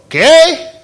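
high-pitched, puzzled mock query; baffled question. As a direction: imitate a baffled local asking what was said. Imagined Mexican puzzled by English.

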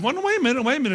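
high-pitched acted interruption; urgent protest. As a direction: cut in to stop someone storming off. Servant stops angry Naaman.

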